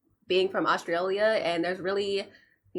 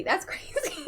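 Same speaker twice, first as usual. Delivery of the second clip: high-pitched laugh through the words; amused at a cheeky lyric, laughing; 12 semitones higher, 3 dB quieter than usual. Real, not acted. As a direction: crack up as you say it.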